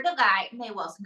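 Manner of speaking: ordinary talk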